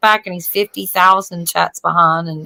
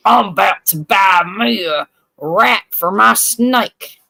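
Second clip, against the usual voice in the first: customer voice; slower than usual. Retold or imitated.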